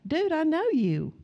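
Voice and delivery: high-pitched, retold amazement; mock freak-out, pitched well up; freaked-out recognition. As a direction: imitate a kid suddenly placing a face. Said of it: "And he's freaking out".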